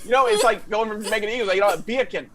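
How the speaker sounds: quick mock of his rambling explanation; imitating castmate. Castmate mimics partner's bacon explanation, a touch fast. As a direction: parrot him fast and fumbling. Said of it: "how he said it multiple times".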